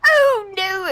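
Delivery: surprised. Acted. In-character reply.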